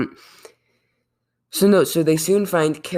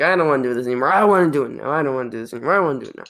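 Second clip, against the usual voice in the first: Kirk impression, mock whining; much faster than usual. Acting out Kirk's flip-flopping.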